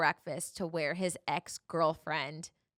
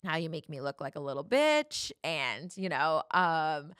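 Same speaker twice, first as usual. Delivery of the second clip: louder, half-hearted retold rant; mock angry yelling; 5 dB louder than usual. Boyfriend raging at her through the locked door, mock yelling. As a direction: replay his rant a notch up. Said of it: "just, like, yelling, screaming".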